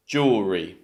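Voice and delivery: jewellery as JOOL-ree; jewellery falling, first syllable stressed; correct pronunciation. Shown as a demonstration. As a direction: compress jewellery, ending in "ree". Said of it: "The correct option is B".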